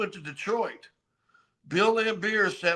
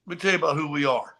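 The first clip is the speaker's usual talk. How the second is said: mock Laimbeer; faster than usual. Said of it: "Just like that".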